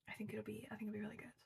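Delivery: soft, half-whispered hope; hushed aside. Real, not acted. Vlogger quietly hoping the reread will be good, almost whispering. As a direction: drop to a near whisper, hopeful.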